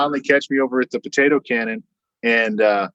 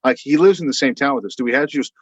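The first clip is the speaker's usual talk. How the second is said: reluctant protest; 3 semitones higher, faster than usual. Retold or imitated. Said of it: "I was like".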